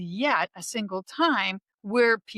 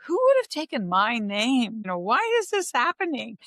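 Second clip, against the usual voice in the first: mock bewilderment, pitched up; baffled; 3 semitones higher than usual. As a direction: retell it as a puzzled outcry. Retelling her puzzlement over taken name.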